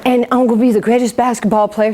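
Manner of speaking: quick boast copying the champ; lightly put-on boxer's swagger, quickly; Muhammad Ali. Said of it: "Why are you talking like that".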